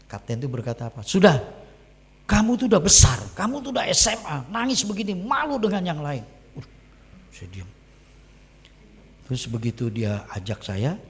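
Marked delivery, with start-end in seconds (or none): 1.0-6.2 higher-pitched telling-off; mild scolding. Retold or imitated. Captain tells crying boy to stop, mild scolding. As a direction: chide him briskly, starting loud.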